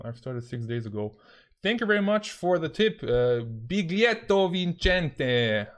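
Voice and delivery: playful put-on Italian accent. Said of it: "I will stop doing an Italian accent".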